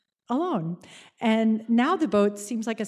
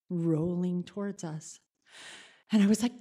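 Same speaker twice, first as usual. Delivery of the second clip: ordinary delivery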